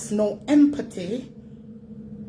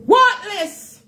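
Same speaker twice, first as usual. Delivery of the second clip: high, loud scornful yell; scornful shout; 13 semitones higher, 7 dB louder than usual. Real, not acted. Ranting at internet critics, a loud scornful shout. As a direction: spit the word out in contempt.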